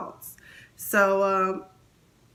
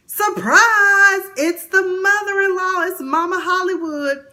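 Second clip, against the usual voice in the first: high loud "Surprise!" reveal; surprise announcement; 9 semitones higher, 8 dB louder than usual. Retold or imitated. Vlogger springing the surprise guest on viewers. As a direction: burst out announcing the mother-in-law. Voicing mother-in-law's surprise entrance.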